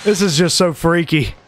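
shaky after a scare; adrenaline shakes. Real, not acted. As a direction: voice trembling with nerves. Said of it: "my hands are shaking right now".

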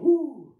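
high, loud exhaled whoo; relieved whoo. Shown as a demonstration. Preacher showing how peace feels, relieved whoo. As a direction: let out a big whoo of relief. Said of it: "I can laugh in peace going".

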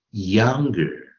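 YOUNGER said slowly, falling at the end; vocabulary demo. Shown as a demonstration. Teacher reading out today's new word, vocabulary demo. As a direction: model "younger" clearly for learners. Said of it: "我们来看今天的生词".

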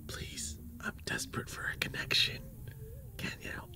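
pleading whisper, barely voiced; breathy desperate plea under the breath. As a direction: beg in a hush for help. Pleading with bouncer for entry.

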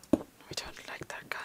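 hushed, very soft aside; wary whisper. Real, not acted. Player spotting something moving, wary whisper. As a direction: whisper it to yourself.

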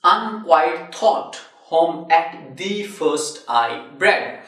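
slow, measured verse reading; deliberate recital of a line of poetry; reading verse aloud. Shown as a demonstration. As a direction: read the line slowly, word by word. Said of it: "it reads".

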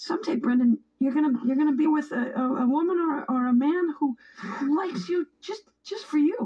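rising emotional voice. Acted. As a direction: pitch climbs high, voice straining. Mother's emotional pep talk.

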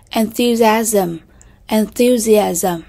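slow, careful "enthusiasm", stressed on THU; stress on second syllable. Shown as a demonstration. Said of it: "những âm thứ hai".

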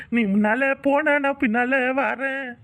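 slow, drawn-out mock-suffering reply; sing-song pained whine. Injured faker following the woman, wailing in a slow sing-song. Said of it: "இப்ப என்ன பாட்டா பாடுன".

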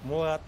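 Murat said with the r dropped, like muat; imitating a speaker who can't roll r in Murat. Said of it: "R'leri söyleyemiyor ya".

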